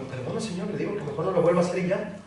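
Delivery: mock apologetic. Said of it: "estoy así como diciendo".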